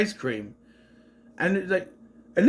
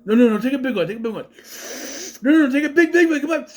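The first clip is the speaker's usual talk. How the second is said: raised, higher insistent urging; mock goading; 8 semitones higher, 5 dB louder, much faster than usual. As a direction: egg him on, imitating pushy bullies. Imitates bullies goading him.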